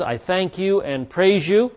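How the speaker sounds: slow, emphatic declaration of thanks. Acted. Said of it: "he very emphatically says".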